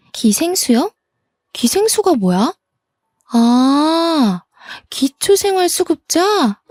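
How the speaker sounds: high, feigned-innocent questioning with big pitch swoops; mocking sister-in-law. Sister-in-law on the phone hears the complaint, mockingly amused. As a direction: play dumb, then amused recognition.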